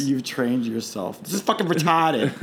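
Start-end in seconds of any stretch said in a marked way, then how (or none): 1.2-2.3 mock Southie Boston grumble; Southie Boston accent. Host imitating a stressed coworker, Southie Boston accent. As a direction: gripe with broad South Boston vowels. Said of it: "Southy Boston trash accent came out".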